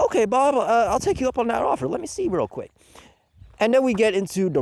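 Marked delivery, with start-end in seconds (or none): 0.1-2.7 mock reluctant agreement. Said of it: "And I'm like".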